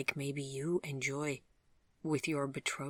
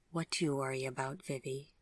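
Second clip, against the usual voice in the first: softer, quicker gentle question; gently; 5 dB quieter than usual. Acted. Gregory gently asking Vivian what troubles her, soft and quick. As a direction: coax it out of her softly. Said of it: "asked Gregory gently".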